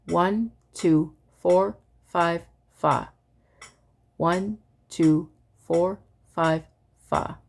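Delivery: evenly spaced counting ending on fa; reverse recitation. Shown as a demonstration. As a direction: count it back in strict time, one word per click. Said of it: "And the inverse".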